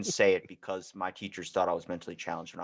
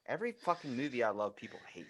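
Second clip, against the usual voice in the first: whisper; 8 dB quieter, faster than usual. Real, not acted. Mock lament.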